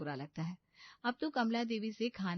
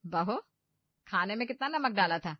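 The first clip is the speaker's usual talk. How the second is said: stern question; 5 dB louder than usual. A narrator's reading. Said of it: "गुस्से से".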